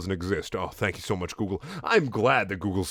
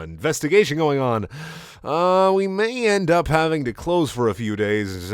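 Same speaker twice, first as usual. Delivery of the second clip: hesitant caller with high, loud openings; hammed-up awkward phone-guy voicemail; Scott phone message; 4 semitones higher, 4 dB louder, slower than usual. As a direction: swing from high bursts to stammering asides. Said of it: "Scott message".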